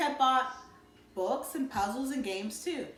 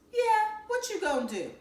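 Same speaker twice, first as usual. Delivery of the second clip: pitched up high, keen to hear; eager question; 13 semitones higher than usual. A narrator's reading. Buphead asks Byron his plan, eagerly.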